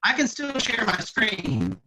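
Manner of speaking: choppy, garbled voice over a bad connection. Real, not acted. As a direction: voice breaking up on a bad line. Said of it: "garbling again".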